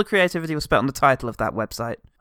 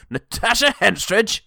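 incredulous; 5 semitones higher than usual. Pretend. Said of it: "depends on the tone that you say it".

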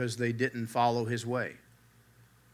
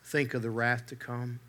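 softer, hushed warning "think of the wrath to come"; quiet plea; 2 semitones lower, 6 dB quieter than usual. Retold or imitated. Preacher pleading with his hearers, hushed and soft. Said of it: "he exclaimed".

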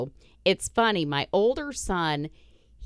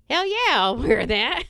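eager younger son; 8 semitones higher, 7 dB louder than usual. Retold or imitated. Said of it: "my younger son's like".

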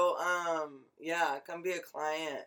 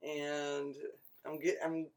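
stoned; 5 dB quieter than usual. Real, not acted. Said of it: "I'm really stoned right now".

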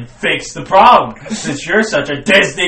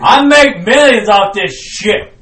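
angry Mickey Mouse; 6 semitones higher, 8 dB louder than usual. Acted.

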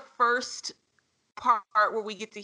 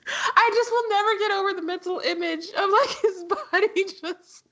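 laughing; 10 semitones higher than usual. Real, not acted. Laughing at the rolling-body image.

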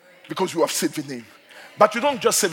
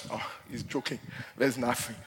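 lower, much softer sneering aside; mocking dismissal; 7 semitones lower, 12 dB quieter than usual. Satan dismissing Christians who cheapen the name, soft mocking aside. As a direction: brush it off like Satan unimpressed.

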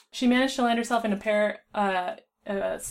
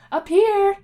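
a high, loud call from a ledge; 12 semitones higher, 10 dB louder than usual. A narrator's reading. Rainbow calling down to Dean from the ledge, high and loud. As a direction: shout down from above so they can find you. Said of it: "Rainbow called".

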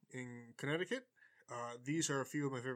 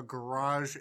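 GARAGE in a put-on accent; 5 dB louder than usual. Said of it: "I didn't understand your accent there".

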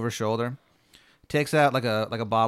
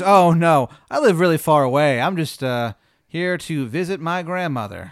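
put-on little girl; 4 semitones higher, 6 dB louder, slower than usual. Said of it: "little girl".

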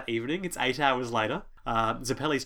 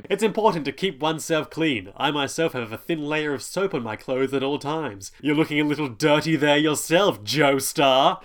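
hammed-up Italian accent, building louder; Caesar; 3 semitones higher, 5 dB louder than usual. Caesar lectures his rival on cleanliness, pompous mock Italian accent. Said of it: "He speaks with a ridiculous Italian accent".

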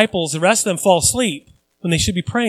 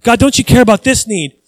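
louder, pleading and aggrieved; mock complaint to God; 2 semitones higher, 5 dB louder than usual. Believer complaining to God that he's unloved, aggrieved and loud. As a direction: whine at God that he doesn't care.

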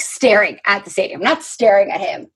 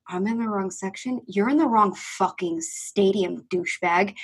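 under the breath; 7 dB quieter than usual. Retold or imitated. Fan answering pitcher's father under her breath, muttered retort. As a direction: keep it down, slow the comeback. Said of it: "I just went under my breath".

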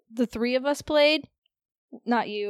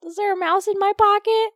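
higher, louder mock quote; mimicking coworker; 10 semitones higher, 5 dB louder, faster than usual. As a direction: parrot the coworker's line.

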